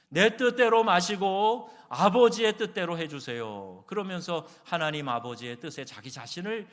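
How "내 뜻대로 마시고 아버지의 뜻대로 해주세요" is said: loud, high, slow plea; earnest prayer. Retold or imitated. Jesus surrendering to his Father's will, loud earnest prayer. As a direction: cry out the prayer slowly and fervently. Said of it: "간절히 나아가 기도할 때마다".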